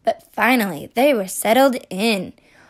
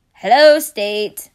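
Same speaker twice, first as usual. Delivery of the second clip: slow, louder little creature voice; slow bug voice; 6 dB louder, slower than usual. Acted. Bug answering Pennsylvania, slow creature voice. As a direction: drag the hello out like a bug.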